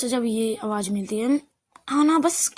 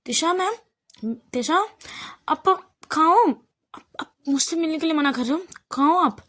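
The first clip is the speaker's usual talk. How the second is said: shouting for Tisa; 5 semitones higher than usual. Acted. Aana barges in calling for Tisa, high desperate shout. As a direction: yell her name through the flat, pleading. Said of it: "वो चिल्लाने लगती है".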